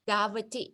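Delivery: DAVATI with a vowel kept after the v; pronunciation attempt. Shown as a demonstration. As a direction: say "Davati" as da-va-ti, ending on a rise. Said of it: "you pronounce what completely?".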